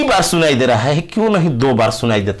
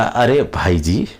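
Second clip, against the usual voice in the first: lower, calm mock request; polite plea to slow down; 6 semitones lower than usual. Listener politely asking a fast talker to slow down, lower calm plea. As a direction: coax a fast talker to ease off, gently. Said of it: "तो आप कहिएगा".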